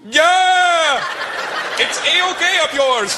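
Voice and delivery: put-on high, loud, drawn-out accented shout; angry dad. Comic's dad botching a rude gesture, hammed-up triumphant shout. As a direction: yell a muddled insult with full conviction. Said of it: "My dad screws it up".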